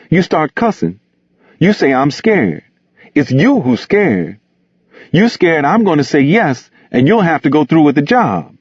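high-pitched character voice, reasoning and standing up for himself; kindly, proud reproach. A narrator's reading. Gus telling Bigger off for cussing him, proud high-voiced reproach. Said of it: "a compromise between kindness and pride".

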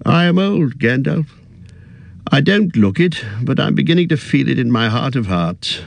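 put-on a fussy old hobbit, a little weary; old hobbit voice, tired at heart; Bilbo. Bilbo's voice in narration.

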